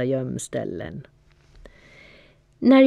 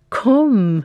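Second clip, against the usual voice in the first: higher, louder eager call; 7 semitones higher, 6 dB louder than usual. A narrator's reading. Dylan calls Fia to come learn flying, eager loud call. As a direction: call her over with excitement. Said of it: "ropade jag sen".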